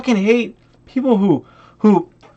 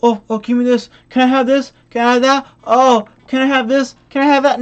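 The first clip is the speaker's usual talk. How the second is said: mock clueless beggar; 3 semitones higher than usual. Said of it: "blind fucking person".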